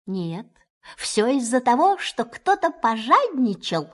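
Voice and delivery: stern. Acted. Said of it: "строго сказал кролик".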